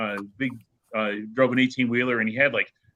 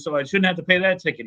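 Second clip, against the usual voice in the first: higher, mock indignant trucker; retold indignant protest; 6 semitones higher than usual. Trucker pleading with the judge, mildly indignant. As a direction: imitate a trucker complaining to the judge. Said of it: "And he was all mad".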